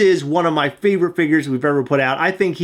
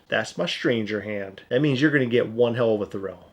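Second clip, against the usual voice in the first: creepy stranger voice; 6 semitones lower, 6 dB quieter than usual. Pretend. Creepy joke voice.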